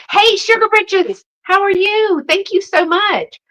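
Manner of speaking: light up and call her name high; excited greeting. Real, not acted. Greeting a viewer who joined live.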